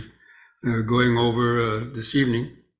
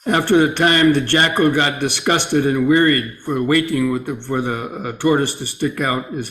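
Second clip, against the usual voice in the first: slightly raised, measured storytelling voice; story read aloud; 3 dB louder than usual. Acted. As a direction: read a teaching tale out clearly to the group. Reads the sutta story aloud.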